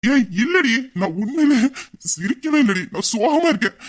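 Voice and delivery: half-laughing insistence that he never laughed; mock insistent denial. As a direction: protest too much, hammed up. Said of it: "நக்கல் பண்ணிய".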